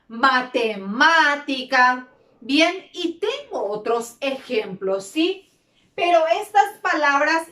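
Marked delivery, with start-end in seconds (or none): 0.1-2.1 matemática slowly, MÁ drawn out; slow, sounded-out matemática with a long MÁ; stress on antepenultimate syllable. Shown as a demonstration. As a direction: lean on MÁ in matemática. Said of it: "tónica en la antepenúltima sílaba".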